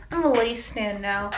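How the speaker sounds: muffled through a mask; through a face mask. Real, not acted. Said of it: "Sorry if I sound muffled".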